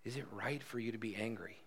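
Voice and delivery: soft, gentle asking; quiet, caring question to a hurting friend; tender question. Shown as a demonstration. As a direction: ask it softly, in love. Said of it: "But this is a tender question".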